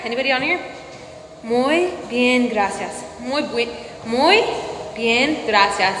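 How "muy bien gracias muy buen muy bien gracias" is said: Spanish accent attempt. Shown as a demonstration. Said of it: "What do y'all think?".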